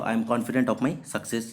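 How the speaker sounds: slow, clear dictation for learners; slow example sentence. Shown as a demonstration. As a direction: read the sentence very slowly, word by word. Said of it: "example sentence read for students".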